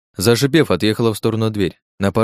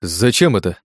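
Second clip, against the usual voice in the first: babbling; slower than usual. Acted. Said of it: "залепетал он".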